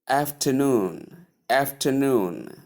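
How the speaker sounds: slow after-NOON, weight on the end; last-syllable stress. Shown as a demonstration. Teacher drilling afternoon for learners, last syllable stressed. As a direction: draw out NOON in afternoon with a fall. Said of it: "stress is placed on the last syllable".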